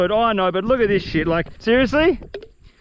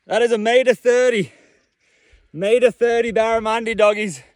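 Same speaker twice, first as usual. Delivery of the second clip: thrilled shout; 3 semitones higher than usual. Real, not acted. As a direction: yell it out, buzzing with joy. Huge barramundi landed, celebrating.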